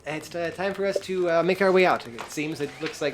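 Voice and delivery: high character voice; high, hesitant excuse to leave; Goliath little guy. Acted. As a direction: address your little friend up high. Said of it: "the little guy goes".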